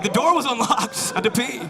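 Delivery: high-pitched mock protest; defensive protest. Intruder excusing himself to the homeowner, high defensive protest. Acting out his defensive reply.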